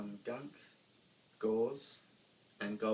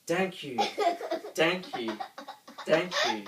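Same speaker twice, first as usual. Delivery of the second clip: joyful thanks; 7 semitones higher, 9 dB louder than usual. A narrator's reading. Monster thanks while hugging.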